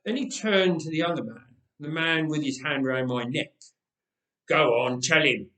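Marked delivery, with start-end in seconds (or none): 4.5-5.5 louder curt order. Acted. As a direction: command your partner. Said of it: "he ordered".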